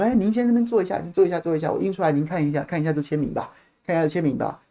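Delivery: softly imitated courteous officer; suddenly very cordial. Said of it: "突然变得很亲切".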